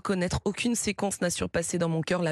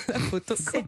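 laughing. Real, not acted. Repeating the clip while laughing.

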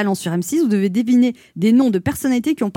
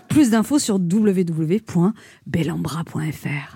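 low sultry read breaking into laughs; sensual voice laughing; 5 semitones lower, slower than usual. Acted. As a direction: laugh through a seductive whisper. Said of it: "je prends une voix sensuelle".

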